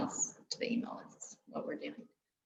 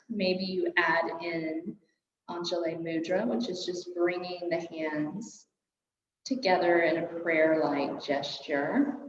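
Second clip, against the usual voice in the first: guided meditation; 2 semitones higher than usual. Real, not acted. Yoga teacher settling a class into their breath, calm guided meditation. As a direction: ease them gently into stillness.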